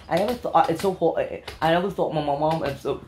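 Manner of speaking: halting attempt at British accent; lightly put-on British English; a celebrity. Host fumbling a celebrity imitation, British accent. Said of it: "British ba yun ang".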